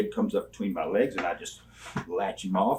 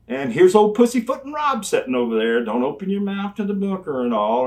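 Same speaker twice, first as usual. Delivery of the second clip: self-mocking; 8 semitones higher, 7 dB louder than usual. Mocking his own timid self.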